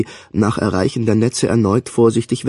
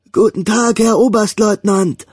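high, booming answer in unison; booming chorus reply; 10 semitones higher than usual. A narrator's reading. The soldiers answering their commodore, a booming shout. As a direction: boom it back like a whole company. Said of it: "dröhnte es zurück".

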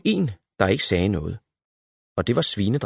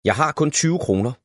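put-on child voice; 8 semitones higher than usual. A narrator's reading. Valborg child voice.

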